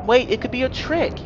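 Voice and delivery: high-pitched acted caution; urgent warning. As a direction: cut in with a high, wary reply. Narrator acts cautious reply in dialogue.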